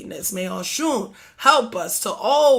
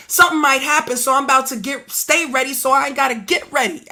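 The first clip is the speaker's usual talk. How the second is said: Harlem saying; 3 semitones higher, 6 dB louder than usual. Shown as a demonstration. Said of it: "as we say in Harlem".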